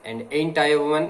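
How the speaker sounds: slow, deliberate oratory reading; slow speech reading. Acted. Teacher reading a speech to the class, slow and deliberate. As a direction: read each phrase slowly, like a speech.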